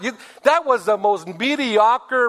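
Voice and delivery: slow mocking scorn; scornful put-down. Wife mocking her husband's prayer, slow and scornful. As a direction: belittle the prayer. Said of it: "she said".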